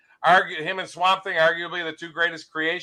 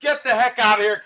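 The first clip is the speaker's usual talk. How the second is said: angry promoter; 4 semitones higher, 5 dB louder than usual. Acted. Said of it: "the guy goes".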